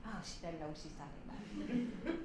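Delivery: soft, low muttered dig; behind-her-back sneer; woman muttering about Allison after praising her; snide aside. Retold or imitated.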